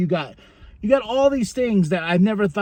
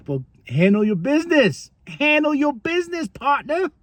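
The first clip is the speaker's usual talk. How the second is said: drawling cowboy; 10 semitones higher than usual. Retold or imitated. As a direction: hand out cowboy advice. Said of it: "the family's like".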